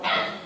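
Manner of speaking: short yelled "Ah!"; mock daddy yell. Daddy testing the baby's hearing, short mock yell. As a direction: let out a quick play-acted yell. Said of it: "the daddy yelled".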